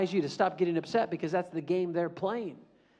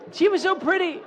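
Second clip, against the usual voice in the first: dreamy swoon; 12 semitones higher, 5 dB louder than usual. Acted. Swooning over pretty girl.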